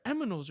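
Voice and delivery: "aminos" for animals, with an m sound; accented mispronunciation. Retold or imitated. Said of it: "saying it wrong 'cause of his accent".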